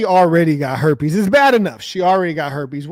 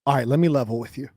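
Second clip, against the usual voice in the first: white guy impression; faster than usual. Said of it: "this is what white people be like".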